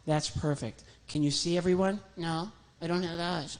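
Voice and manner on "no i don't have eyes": odd little puppet voice. Acted. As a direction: innocent sock voice. Puppet Sock answers.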